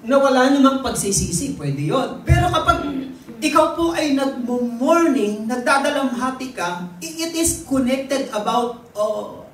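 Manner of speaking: loud, high, building preacher's cry; rising preaching. Real, not acted. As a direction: lift it into a fervent sermon climax. Preacher builds to full force.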